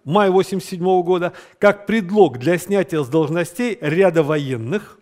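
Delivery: dictating. Shown as a demonstration. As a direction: spell it out for note-taking. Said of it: "значит, записываем".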